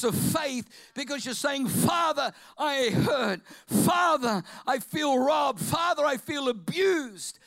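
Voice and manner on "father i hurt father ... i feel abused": pleading and hurt, building loud; anguished prayer. Pretend. Preacher voicing a wronged believer's prayer, anguished. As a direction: cry out to the Father in pain.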